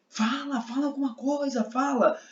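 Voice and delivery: high-pitched, urgent nagging demand; insistent intonation. Shown as a demonstration. Teacher demonstrating prosody as men demanding an answer, insistent. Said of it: "processo prosódico".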